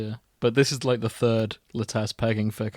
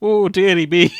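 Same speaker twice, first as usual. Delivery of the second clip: put-on old lady voice; 7 semitones higher, 10 dB louder than usual. Mock old lady exclaiming.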